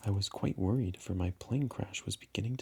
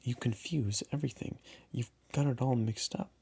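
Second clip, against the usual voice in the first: annoyed; 4 semitones higher than usual. Acted.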